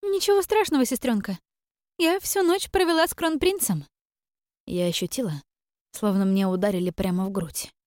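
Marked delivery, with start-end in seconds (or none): 0.0-3.9 much higher, sly and teasing; gloating sister. Acted. Sister boasting to Iren about the crown prince, high and gloating. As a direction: drop the news sweetly to sting.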